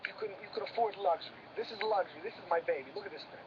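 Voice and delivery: hushed awe. Acted. Shows off luxury car, hushed.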